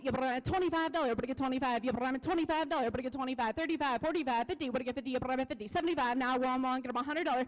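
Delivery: rapid rolling auction chant; auctioneer. Acted. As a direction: rattle off the bids like an auctioneer. Auction chant bid calling.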